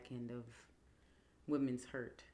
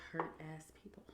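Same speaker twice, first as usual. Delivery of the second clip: whisper; 5 dB quieter than usual. Real, not acted. Aside while answering question.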